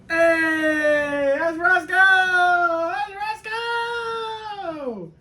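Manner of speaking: very high, slow squeal at the dog. Real, not acted. Owner shows his dog to viewers, high squealing pet voice. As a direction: gush over the dog in a squeaky voice.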